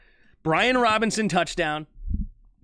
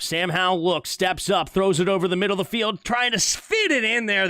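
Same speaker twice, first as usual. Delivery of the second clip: live play-by-play. Acted. Streamer calls the Washington drive, play-by-play building as the ball flies. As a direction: build the call through the throw.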